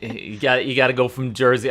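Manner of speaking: put-on quick Boston accent. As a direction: rattle it off Boston style. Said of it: "I'm using a Boston accent".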